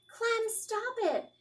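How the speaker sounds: high, slow, firm command; firm shout. A narrator's reading. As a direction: stop the dog with a firm shout. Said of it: "she shouted in a very firm voice".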